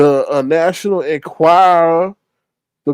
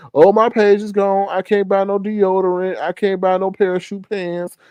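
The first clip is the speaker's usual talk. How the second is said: mocking whiny voice. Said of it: "or nothing like that".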